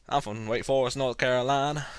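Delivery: lightly put-on Southern accent. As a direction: imitate a sudden slip into Southern accent. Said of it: "my southern instincts kick in".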